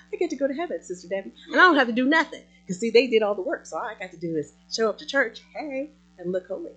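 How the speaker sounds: complacent churchgoer. Acted. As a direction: play a smug pew-sitter coasting on family faith. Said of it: "So you would think".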